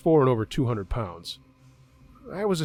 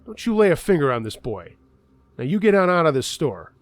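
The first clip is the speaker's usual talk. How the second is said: put-on firm, louder old man's order; grandfather yelling; 4 semitones higher, 4 dB louder than usual. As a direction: drive the bully out of the store. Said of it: "he yells".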